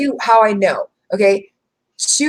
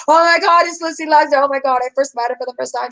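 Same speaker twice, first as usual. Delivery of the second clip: excited gushing; 5 semitones higher than usual. Retold or imitated. Telling Lucy how she freaked out on meeting her, in mock excited gushing. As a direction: gush like you just spotted your favourite creator.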